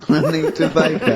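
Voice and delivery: laughing while saying the name. Real, not acted. Laughing at the pun answer.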